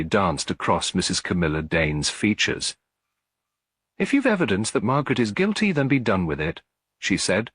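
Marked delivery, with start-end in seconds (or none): 4.0-6.6 quick, higher, nervously pushing it out; a widow hiding her nerves behind brusque words; nervous tremor. A narrator's reading. Quick nervous reply to Miss Marple's accusation. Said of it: "a slight tremor betraying her nerves".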